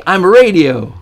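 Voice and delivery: punchline. Retold or imitated. Punchline of kids' joke.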